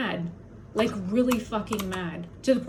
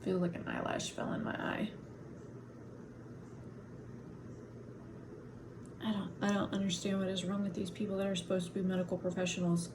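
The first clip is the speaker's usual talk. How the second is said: much softer, muttered to herself; quiet muttering; 3 semitones lower, 12 dB quieter, faster than usual. Real, not acted. Vlogger muttering about her eye and the doctors, much softer. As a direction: drop to a near-mumble, talking to yourself.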